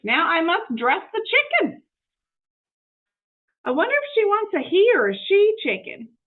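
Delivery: eager, innocent housekeeper talking to herself; Amelia Bedelia voice. Acted.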